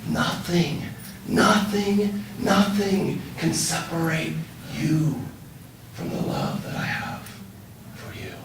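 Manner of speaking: swelling, then softening to near silence; tender build then fade. Retold or imitated. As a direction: build gently then let it fall away. Builds then fades, retold promise.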